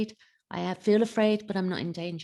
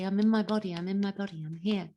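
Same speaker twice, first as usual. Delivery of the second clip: gentle self-reassurance. Shown as a demonstration. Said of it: "just gently say".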